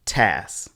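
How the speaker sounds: tas said alone as the stressed beat; isolated stressed syllable. Shown as a demonstration. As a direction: give tas on its own, firmly. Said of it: "The stress falls on the second syllable".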